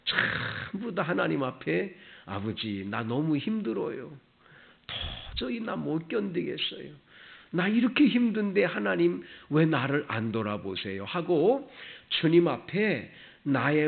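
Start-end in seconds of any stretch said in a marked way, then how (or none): 2.3-11.0 higher-pitched imitated plea to God; pouring out anguish. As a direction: act out a believer pouring out their pain to the Father. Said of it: "토설하는 거예요". (하나님께 괴로움을 토설하듯 높아진 목소리로 하소연)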